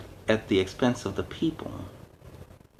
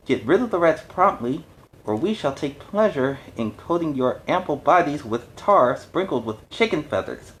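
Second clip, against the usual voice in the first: raised, loud demanding cry; crying out angrily; 4 semitones higher, 4 dB louder than usual. Acted. Fishwife leader threatens the council, loud and angry. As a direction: threaten the council with tar and feathers.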